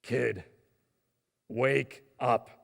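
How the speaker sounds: a hint of a big booming voice; loud commanding wake-up call; lightly voiced booming announcer. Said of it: "big, booming voice".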